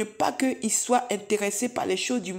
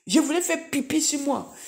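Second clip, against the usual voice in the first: higher, half-laughing confession; laughing embarrassment; 4 semitones higher than usual. Real, not acted. The witness owning up to the church, half laughing. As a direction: giggle through the admission. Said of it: "Excusez-moi du terme".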